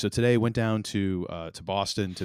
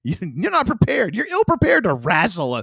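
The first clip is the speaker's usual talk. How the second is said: loud, higher comic tirade; hammed-up cautionary rant; mock warning; 4 semitones higher, 7 dB louder than usual. Friend lecturing on squirrel dangers, mock-serious warning.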